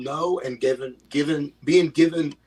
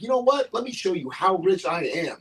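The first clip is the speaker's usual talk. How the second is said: high, laughing through a mock rich-guy boast; 6 semitones higher than usual. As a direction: crack up while bragging as the rich fan. Voicing the rich fan, laughing.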